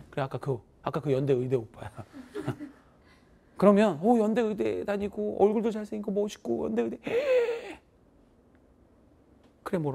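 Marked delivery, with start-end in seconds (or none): 2.0-2.7 short laugh. Real, not acted. Laughing at imagined scene. 7.0-7.7 sharp high gasp of awe; mock gasp. Teacher playing a student spotting the med-school guy, high gasp.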